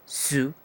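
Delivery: "Su" opening with a mosquito-like buzz. Shown as a demonstration. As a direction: buzz the Z in "Su" like a bee. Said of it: "Como un mosquito".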